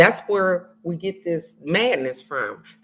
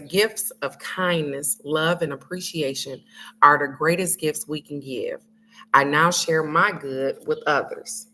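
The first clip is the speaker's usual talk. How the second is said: reading the affirmation; 4 semitones lower than usual. Real, not acted. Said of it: "It says".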